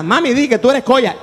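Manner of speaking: coaxing. Acted. Coaxing a Chinese woman to repeat.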